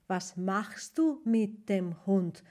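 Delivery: "Hund" falling at the end; falling question. Shown as a demonstration. Teacher showing the German falling question tune. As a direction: let "Was machst du mit dem Hund?" drop down. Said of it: "con la entonación descendente".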